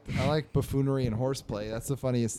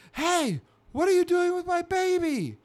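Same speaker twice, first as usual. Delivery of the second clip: very high squirrel-mother shriek, louder; exasperated yell; 6 dB louder than usual. Acted. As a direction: yell in a shrill cartoon squirrel voice. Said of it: "like, yelling, exasperated".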